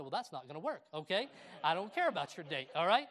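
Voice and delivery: a playful firm telling-off; half-joking stern uncle; mock stern scolding. Scolding nephew by text.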